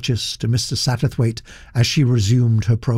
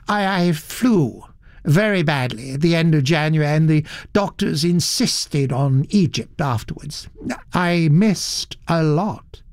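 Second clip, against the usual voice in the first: regretful; 4 semitones higher than usual. Acted. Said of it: "His voice rang with a note of real regret".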